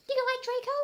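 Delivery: put-on high, loud girly question; teasing friend. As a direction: needle her about the boy. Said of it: "she asked".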